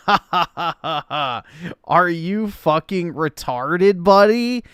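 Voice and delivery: rising to a loud, high yell on buddy; mock yelling insult. Reading the troll's insult aloud, building to a mock yell. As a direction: blast the last word at him. Climax of read insult comment.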